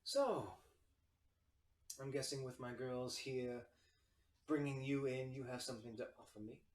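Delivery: lightly voiced feminine tiefling; a hint of a poised hostess feeling out guests; soft feminine voice. Tiefling host asks what guests offer, lightly feminine voice. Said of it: "you hear this soft feminine voice".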